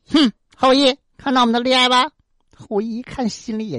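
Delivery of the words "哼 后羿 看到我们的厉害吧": smug gloating. Acted. Sun gloating at Houyi, smug higher taunt. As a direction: gloat down at the archer. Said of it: "太阳得意洋洋地说".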